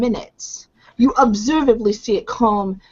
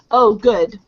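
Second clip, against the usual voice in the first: relieved. Acted. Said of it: "with a sound of relief".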